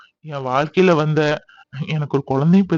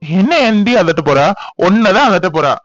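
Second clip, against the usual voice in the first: playful loud retort; 2 semitones higher, 5 dB louder than usual. Acted. Husband playfully retorts at wife.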